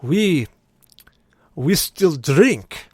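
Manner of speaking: slow, emphatic words with long pauses; bride's father. Retold or imitated. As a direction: imitate a man of few words announcing. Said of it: "and he goes".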